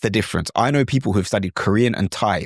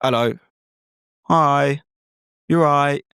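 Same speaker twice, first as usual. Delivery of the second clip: English greetings; 4 semitones higher, slower than usual. Shown as a demonstration. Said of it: "even in England".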